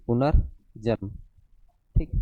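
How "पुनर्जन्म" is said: slow demonstration. Shown as a demonstration. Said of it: "ज में आएगा, रारे".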